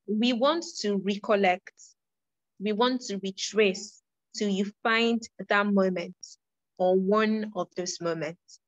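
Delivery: slow, spaced-out teaching; slow down and pause between phrases. Real, not acted. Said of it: "I should try to speak more slowly".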